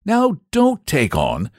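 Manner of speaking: lightly acted kindly comfort; consoling saint. A narrator's reading. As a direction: soothe a crying child. Saint comforts the crying boy.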